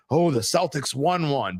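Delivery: high, drawn-out mock awe, then dismissive; mocking bettor's excitement. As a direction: scoff at the big news in a high voice. Mimics excited Celtics bettors, dismissively.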